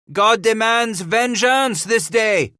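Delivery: slow, high, loud vengeful shout. Acted. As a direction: proclaim vengeance at full voice, slowly. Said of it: "Paul Rem shouted".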